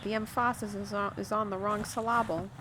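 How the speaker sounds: "emphasis" as em-FASS-is, "syllable" as sil-LAH-bul; joking misplaced stress. Shown as a demonstration. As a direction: hit the middle syllable of both "emphasis" and "syllable". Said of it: "I love this statement".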